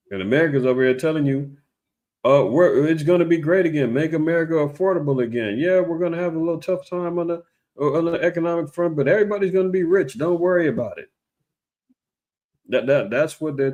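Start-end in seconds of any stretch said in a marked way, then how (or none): 2.2-11.1 higher, breezy sales-pitch reassurance; mock upbeat official reassurance. Vlogger mocking the news telling people all is fine. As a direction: brush off the worry like a smooth politician.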